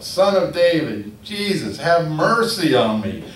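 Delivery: high, loud pleading call; yelling out. Retold or imitated. Blind man yelling at Jesus passing by, loud pleading call. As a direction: cry out for mercy from the roadside. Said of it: "he's yelling out".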